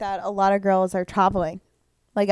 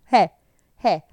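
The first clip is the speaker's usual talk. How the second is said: put-on drunk hey; 8 dB louder than usual. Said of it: "You're like".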